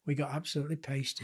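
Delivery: softly repeated, falling away; subdued admission. Real, not acted. Low-key repeat of the admission.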